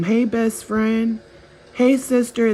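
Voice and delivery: fake friendly greeting. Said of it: "Now they're walking in the room".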